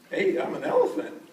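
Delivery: high, loud elephant character voice; announcing himself. Acted. Eduardo reveals to his friends he's an elephant, announcing it. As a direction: call it out high for the children, as the elephant.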